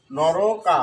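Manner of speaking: নরকা as "noro-kaa"; correct pronunciation demo. Shown as a demonstration. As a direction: lengthen the end of নরকা. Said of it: "উচ্চারণ কি হলো?".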